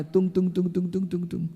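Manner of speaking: soft, even "tung tung tung" patter; imitated footsteps. Storyteller imitating father walking into his son's house, soft sound effect. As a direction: voice little footfalls quietly, on one pitch.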